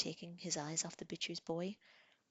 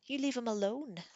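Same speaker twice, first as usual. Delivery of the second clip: high scream; 6 semitones higher, 4 dB louder than usual. A narrator's reading. Girl screaming at her sister, high scream. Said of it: "Sansa screamed at her sister".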